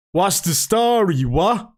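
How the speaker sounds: broad put-on Dublin accent, slow and high. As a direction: ham up a Dublin greeting. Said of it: "have to read this in a Dublish accent".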